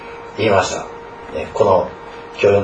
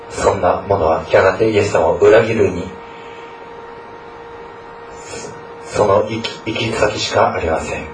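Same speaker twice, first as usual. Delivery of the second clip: earnest prayer. Acted. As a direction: pray aloud for the students. Pastor leads an opening prayer. (牧師の真剣な祈り)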